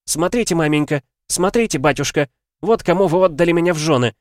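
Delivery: high, loud, tearful accusation; voice breaking with tears. A narrator's reading. Daughter accusing parents of her marriage, tearful cry. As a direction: hold back tears while crying out. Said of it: "Голос Алеидора ломался от еле сдерживаемых слёз".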